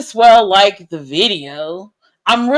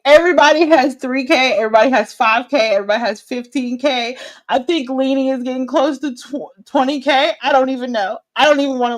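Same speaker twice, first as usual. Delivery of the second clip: higher and louder, getting worked up; rising higher with each number; building excitement; 4 semitones higher, 3 dB louder, faster than usual. Real, not acted. Whining about follower counts.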